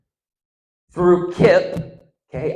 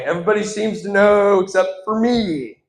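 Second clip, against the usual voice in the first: higher-pitched comic panic; freaking out; 5 semitones higher, 3 dB louder than usual. Acted. Student freaking out during the exam, panicky whine. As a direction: act out a mild freak-out, pitch up. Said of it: "I'm freaking out".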